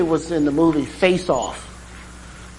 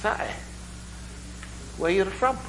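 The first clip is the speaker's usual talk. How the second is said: mock Irish brogue; 4 semitones higher, 9 dB quieter than usual. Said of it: "my Irish brogue sounds a lot like Jamaican".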